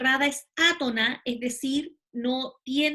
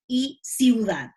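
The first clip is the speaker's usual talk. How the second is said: "Anastasio y ciudad" said slowly and carefully; slow example words; 5 dB louder, much slower than usual. Shown as a demonstration. Teacher slowly models example words for students. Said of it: "Por ejemplo".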